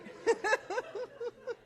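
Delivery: airy high-pitched laugh. Real, not acted. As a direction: burst out laughing at your own joke. Laughs at her own joke.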